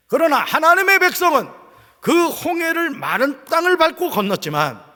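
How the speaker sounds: emphatic sermon delivery, rising loud; preaching. Real, not acted. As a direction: drive the contrast home to a congregation.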